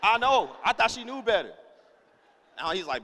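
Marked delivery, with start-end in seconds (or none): 0.0-1.5 high, loud exasperation; comically indignant; worked-up agreement. Acted. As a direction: protest like a wronged husband. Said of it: "me and Ira mad at Devin".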